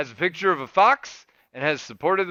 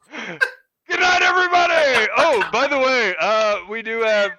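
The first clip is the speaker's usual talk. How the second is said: high, loud hammed-up Cajun sign-off; Cajun accent; 6 semitones higher, 6 dB louder than usual. Host saying goodnight to listeners in a hammed-up Cajun accent. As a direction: sign off like a laughing bayou host. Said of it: "now I'm doing it in my accent".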